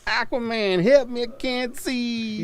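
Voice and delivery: high, slow, pleading cartoon voice; blind Superman. Comic book seller voicing blind Superman, high and pleading. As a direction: wail it like a helpless hero gone blind. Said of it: "I like Blind Superman".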